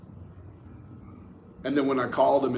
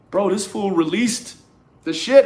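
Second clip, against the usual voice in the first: 1 retold outburst; 7 semitones higher, 6 dB louder than usual. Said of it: "And he's like".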